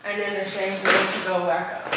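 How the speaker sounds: talking around a retainer; retainer in mouth. Real, not acted. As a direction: speak with a retainer in. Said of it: "I had my retainer in my mouth".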